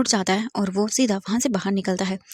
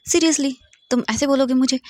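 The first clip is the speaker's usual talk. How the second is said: high, loud, hammed-up indignation; mock shock; 5 semitones higher, 4 dB louder than usual. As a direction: play wounded with a wink. Wang Ji mock-offended at rebuff. (नाटकीय चौंक)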